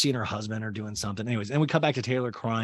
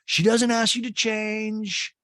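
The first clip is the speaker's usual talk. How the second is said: slow emphatic lecture; 10 semitones higher, 4 dB louder, much slower than usual. Retold or imitated. Craig lecturing Shep.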